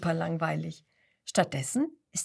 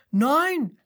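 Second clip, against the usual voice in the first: klagend; 7 semitones higher, 6 dB louder than usual. A narrator's reading. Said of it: "klagt der Seppel".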